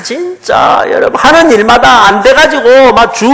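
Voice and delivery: demo exclamation. Shown as a demonstration. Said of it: "제가 한번 해볼게요".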